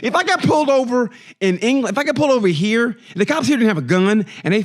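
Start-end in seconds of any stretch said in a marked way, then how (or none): 0.0-3.0 laughing rant. Real, not acted. Laughing rant about cops.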